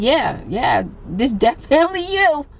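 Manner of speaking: lightly voiced teller confirming the ID; imitating bank staff. Mimicking the teller who checks her face against the ID. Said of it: "they said".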